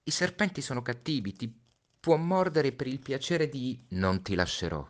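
put-on a small boy warning of the snake; Little Prince voice. (voce del Piccolo Principe, più acuta)

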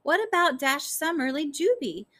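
increasingly worked-up plea. A narrator's reading. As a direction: pitch climbing into a high, insistent appeal. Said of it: "her voice getting louder and louder".

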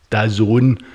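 "dazone" said as da-ZONE; brand name pronunciation. Shown as a demonstration. Podcaster introducing the streaming deal, "dazone" pronounced carefully as da-ZONE. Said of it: "as it's pronounced".

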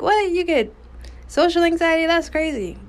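mock disbelief. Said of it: "they're like".

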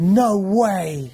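loud, hammed-up astonishment; mock disbelief. Co-host reacting to the peddler's news, mock astonished. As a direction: play the gobsmacked villager.

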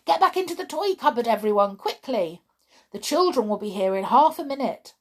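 fast, high urgent orders; urgent hurry. Acted. Bear hurrying the toys into the cupboard, fast and urgent. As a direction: rush everyone back to the cupboard. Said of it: "cried the bear suddenly".

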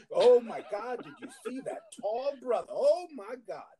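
high, laughing gush over a tall man; mimicking swooning coworkers. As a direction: squeal like a smitten coworker, slowing on the last "Oh my God". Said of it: "it's just like".

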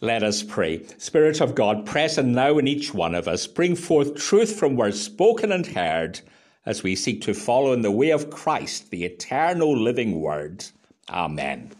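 firm, projected prayer falling to a low Amen; public prayer. Real, not acted. Minister leading the congregation before the sermon, public prayer. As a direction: pray aloud in steady phrases.

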